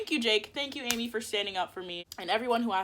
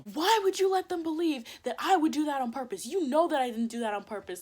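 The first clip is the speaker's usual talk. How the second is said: mock-upset phone yell, pitched up; indignant retold outburst, only moderately raised; retold angry yelling; 5 semitones higher, 3 dB louder than usual. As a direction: imitate a friend yelling down the phone. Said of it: "like, yelling at me over the phone".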